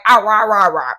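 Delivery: loud mock dog talk. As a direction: bark back like a chatty dog. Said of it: "he's not saying real words".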